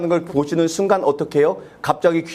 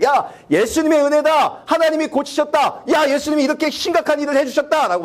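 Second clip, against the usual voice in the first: grateful praise; 10 semitones higher than usual. Retold or imitated. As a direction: gush with thanks, lifted high. Imagined grateful healed man. (높고 느리게 기뻐하며 감사)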